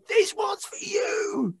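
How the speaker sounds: dedication. Retold or imitated. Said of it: "and I'm saying".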